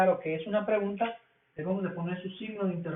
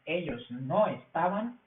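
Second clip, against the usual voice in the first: slow model sentence; 2 semitones lower, slower than usual. Shown as a demonstration. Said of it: "Ellos no estaban felices".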